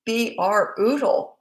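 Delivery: BRUTAL broken up slowly into B, R, oodle; drawn-out emphasis. Real, not acted.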